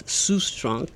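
name said in a bad German accent. Shown as a demonstration. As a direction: Sustrunk with a hammy German accent. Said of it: "I say that in my very bad German accent".

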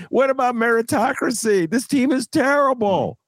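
high, laughing indignation; amused outrage. Real, not acted. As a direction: scoff at the absurd plan. Laughing outrage at stadium plan.

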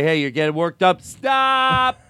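high, loud scolding like training a dog; laughing mock scold of your own anxiety; yelling at yourself. Shown as a demonstration. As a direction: snap at yourself like you would at a dog. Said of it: "You have to yell at yourself".

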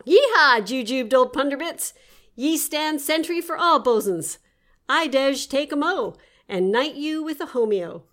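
loud, high whooping sailor; excited sailor cheer. Acted. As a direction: whoop it like a happy deckhand. Bosun cheers captain.

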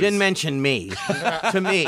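laughing through the line; amused at the snub; chuckling as he tells it. Real, not acted.

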